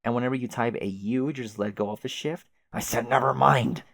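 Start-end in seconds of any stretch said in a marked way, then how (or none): 2.7-3.8 louder, snapping repeat; angry insistence. Acted. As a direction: shout it down in embarrassment. Caliborn embarrassed, insists.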